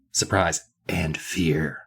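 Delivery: slow "surprise", then "and fear" set apart; offset "and fear". Shown as a demonstration. Showing co-host the funny wording, "and fear" offset. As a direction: show the pause before "and fear", low and soft. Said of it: "it was offset, like".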